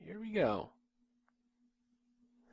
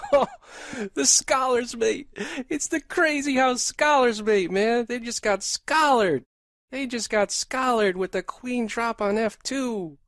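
loud, higher victorious gloating; excited; 3 semitones higher, 4 dB louder than usual. Real, not acted. Streamer delivering his own scholar's mate, triumphant. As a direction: celebrate the revenge loudly.

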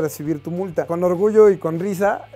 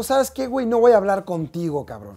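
higher, sharp defiant brush-off; defiant refusal; 5 semitones higher than usual. Retold or imitated. Refusing to speak to the policeman, defiant. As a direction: cut him off for good.

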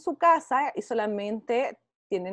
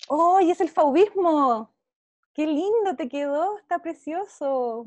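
delighted praise; 2 semitones higher than usual. Real, not acted. Teacher admiring a pupil's fauvist picture, delighted. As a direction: exclaim in admiration at a pupil's work.

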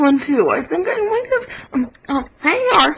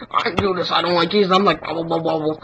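low, grumbling villain; 12 semitones lower, 4 dB quieter, much faster than usual. Pretend. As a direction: growl it out deep and sulky. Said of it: "One hundred impressions".

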